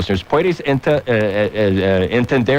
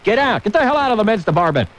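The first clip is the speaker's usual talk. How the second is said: mock angry shout; 7 semitones higher than usual. Ranting at women shoppers.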